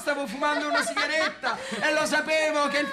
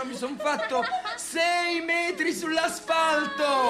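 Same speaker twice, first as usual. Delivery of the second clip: laughing boast; 3 semitones higher, much slower than usual. Acted.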